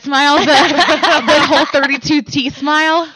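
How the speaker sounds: laughing loudly and high as she tells it; bursting into laughter over her own awkward grin. Real, not acted. To her friends about the awkward smile, laughing.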